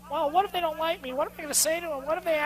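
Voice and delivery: high, soft, worried little voice; timid inner voice. Retold or imitated. Trainer voicing a salesperson's self-doubt, timid and worried. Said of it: "a little voice going".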